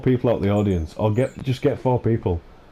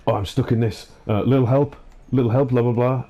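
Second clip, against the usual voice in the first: mock scripted gamer plea; 4 semitones higher than usual. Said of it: "nobody speaks like that".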